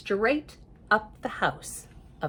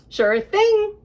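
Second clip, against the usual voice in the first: a high, loud, eager yes; cheery agreement; 12 semitones higher, 8 dB louder than usual. Acted. Andrew Henry happily agreeing to build a house, eager. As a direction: toss it off happily, sure of himself.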